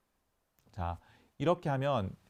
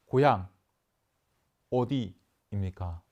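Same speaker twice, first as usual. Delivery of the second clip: asking; 2 semitones lower, 5 dB louder, slower than usual. Shown as a demonstration. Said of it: "이렇게 물어볼 수 있겠죠".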